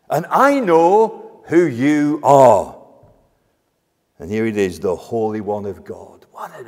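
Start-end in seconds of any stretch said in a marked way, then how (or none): 0.1-2.7 slow, loud cry of recognition; demon's awed fear. Acted. Demon recognising Jesus, awed and fearful. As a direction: draw it out in astonished dread. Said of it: "a note of wonder and fear".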